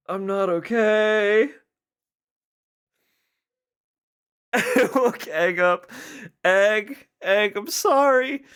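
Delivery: high, loud, laugh-choked words; gasping out words mid-laugh; laughing apology. Real, not acted.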